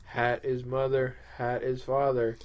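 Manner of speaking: lightly voiced brainwashed devotee, even pitch; mind-controlled hat follower. Devotee assures co-host of the hat's love, mind-controlled. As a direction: recite it like cult doctrine, evenly. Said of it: "complete and total mind control".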